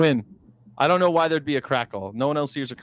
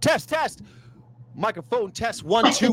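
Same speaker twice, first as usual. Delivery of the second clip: mic test; 7 semitones higher than usual. Shown as a demonstration. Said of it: "say something again?".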